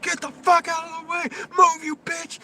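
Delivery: high, loud furious yell; angry screaming. Retold or imitated. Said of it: "starts fucking screaming at the guy".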